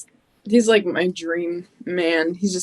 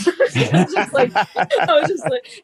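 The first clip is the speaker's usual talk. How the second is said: laughing through the words, pitched up and slowed; 9 semitones higher, 3 dB louder, slower than usual. Real, not acted. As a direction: let the laugh take over the line. Laughing while retelling.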